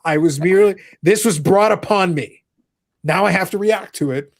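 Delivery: hammed-up protest of innocence; mock innocence. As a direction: play the wronged innocent, slow and grand. Hammy denial of posing question.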